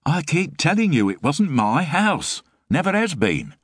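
rough, grumbling Frost voice; gruff hungover man. A narrator's reading. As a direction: deflect her like a sore-headed lodger. Frost protesting.

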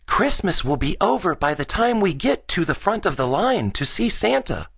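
put-on high-pitched boy's complaint; grumbling. A narrator's reading. Gus waiting in the long Santa line, grumbling. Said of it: "he grumbled".

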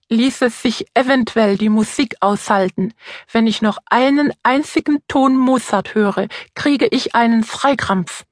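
wet lisp on every s; slushy lisp. Acted. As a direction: speak with a heavy slushy lisp. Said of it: "lispelt der Osterhase". (stark lispelnd)

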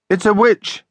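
high-pitched alarmed yell. A narrator's reading. Joel spots a witch swooping at the twins, yelling. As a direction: call out a high warning, not at full volume. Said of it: "yelled Joel".

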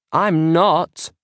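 put-on high, indignant child's shout; shouting back. A narrator's reading. Maisie denying her sister's accusation, shouting back. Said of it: "Maisie shouts back".

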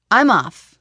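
hissed through clenched teeth. Acted. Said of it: "she hissed through clenched teeth".

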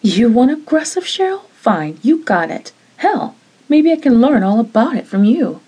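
sharp, taunting threat; angry challenge. Acted. Jeannie daring Cheryl, angry challenge. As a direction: throw it back at her.

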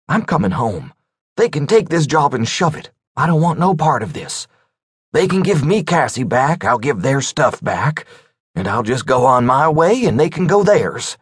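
lightly voiced exasperated caller; frustrated man voice. Rice voiced, fed up and scared.

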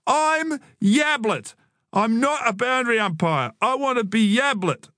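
put-on high, indignant kid's outburst; impassioned little-brother protest; fierce shout. A narrator's reading. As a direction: insist hotly, pitched right up. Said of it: "Joel shouted, his eyes ablaze".

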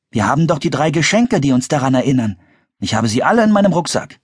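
lightly voiced boy reassuring his friends; Philipp, assuring. A narrator's reading. (leicht erhöhte, versichernde Jungenstimme)

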